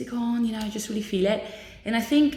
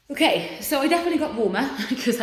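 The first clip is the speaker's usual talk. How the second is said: laughing; 7 semitones higher, 3 dB louder, faster than usual. Real, not acted. Laughs about being hot.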